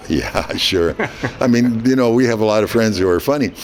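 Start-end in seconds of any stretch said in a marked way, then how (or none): 0.1-1.0 low, skeptical brush-off with a chuckle; dry, amused disbelief. Retold or imitated. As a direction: answer like it's a friend's prank. Disbelieving reply to supposed prank caller.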